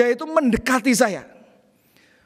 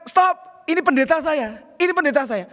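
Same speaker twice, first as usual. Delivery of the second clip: retold shout; 6 semitones higher than usual. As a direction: cry out to stop him, a little lighter. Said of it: "tiga anak muda mengatakan".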